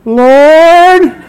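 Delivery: half-laughing cry to God; laughing plea. Retold or imitated.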